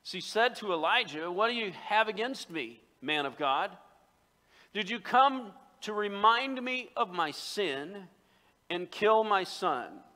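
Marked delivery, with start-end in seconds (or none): 1.3-10.0 raised, pointed accusation; upset. Acted. Upset widow to Elijah over her son, mildly dramatized reproach. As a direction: challenge him, higher and slowing down. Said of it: "She's upset".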